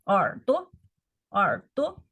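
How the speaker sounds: 耳 dipping down then up, 朵 light and short; teacher modelling 耳朵 at a slow pace; slow tone model. Shown as a demonstration. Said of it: "this 朵 is also light tone".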